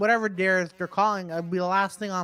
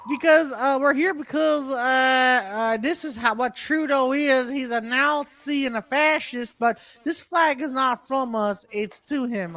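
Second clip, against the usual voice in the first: high, drawn-out redneck voice; hammed-up redneck drawl; redneck accent; 5 semitones higher than usual. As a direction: explain yourself as a mock redneck protester. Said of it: "a redneck accent".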